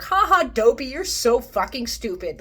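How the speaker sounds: high, loud schoolyard taunt; dwarves mocking Dopey. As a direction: jeer at him like a bully. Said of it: "being like".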